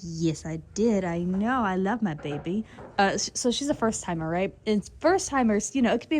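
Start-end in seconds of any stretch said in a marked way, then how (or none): 0.0-2.6 low, slow proud-mother horse, lightly voiced; horse's voice. Vlogger voices the mare answering praise, lightly put-on low voice. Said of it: "She goes".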